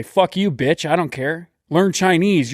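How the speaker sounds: a touch of a rising snarl; hammed-up insult; mock rant. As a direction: snap back in mock anger. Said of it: "And I would say".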